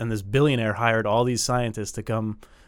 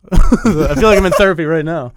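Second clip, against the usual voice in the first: nervous laugh; 6 semitones higher, 13 dB louder than usual. Real, not acted. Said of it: "I don't know why I'm nervous".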